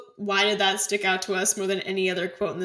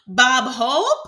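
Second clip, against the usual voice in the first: laughing quote; 5 semitones higher, 9 dB louder than usual. Retold or imitated. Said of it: "random things stick".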